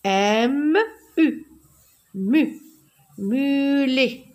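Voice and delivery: "mulet" with a long held "mu"; letters apart, then "mulet" drawn out by syllable; forming syllables. Shown as a demonstration. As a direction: spell out "M U", blend to "mu", then stretch "mulet". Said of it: "je forme des syllabes".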